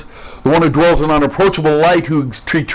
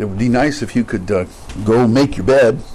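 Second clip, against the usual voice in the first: polite request; 4 semitones lower than usual. Shown as a demonstration. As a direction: ask gently, almost apologetic.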